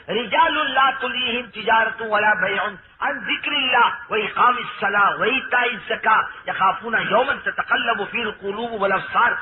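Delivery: slow, measured Arabic recitation; Quran recitation. Acted. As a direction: recite the verse with drawn-out syllables. Recites Quran verse within sermon. (ٹھہر ٹھہر کر تلاوت)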